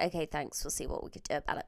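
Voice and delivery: a lightly imitated bored call handler hurrying to hang up; rude brush-off. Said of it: "She was so rude".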